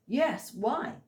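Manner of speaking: a wary, unsure "what's this about?" tone; uncertain. A narrator's reading. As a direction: answer unsurely, pitch lifting. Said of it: "with uncertainty in his voice".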